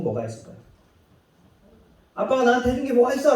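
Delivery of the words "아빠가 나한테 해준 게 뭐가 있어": put-on ungrateful child. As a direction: throw it at dad with a sneer. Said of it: "라고 할 때".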